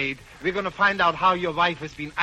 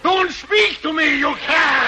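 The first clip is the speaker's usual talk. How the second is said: indignant outburst; 11 semitones higher, 6 dB louder, slower than usual. Pretend. Outraged reply in the act.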